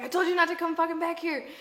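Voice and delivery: high, loud retold scolding; mock an outraged challenge, pitched well up; angry confrontation.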